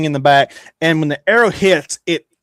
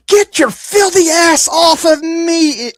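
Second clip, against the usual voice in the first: much higher, louder, slow outraged yell; furious shout; 6 dB louder, slower than usual. Acted. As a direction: bellow it in disgust at whoever's touching you. Rose wakes, furious at neighbour.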